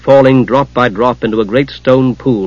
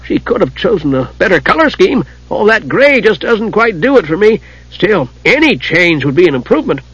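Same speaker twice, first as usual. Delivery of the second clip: kender voice; 6 semitones higher than usual. Acted. Tas's voice in the story.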